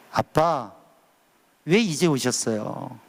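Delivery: put-on slow, gentle longing, like a child running into a father's arms; tender daughter's plea. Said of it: "달려가서 안기면서 이렇게 얘기할 거예요". (천천히, 애틋하게 아빠를 부르듯)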